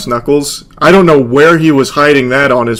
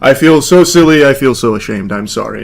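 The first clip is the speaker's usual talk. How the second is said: a hint of a whimpering apology, dropping away; mock shame; 2 semitones lower than usual. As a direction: narrator parodying the suspect's shame. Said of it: "profusely apologizing".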